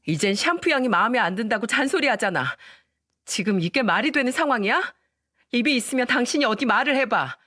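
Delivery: mild acted anger, rising toward the end; understated snapping at the husband; angry outburst. Wife blowing up at her husband over his mother, mildly angry. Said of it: "버럭 화를 내면서 말했죠".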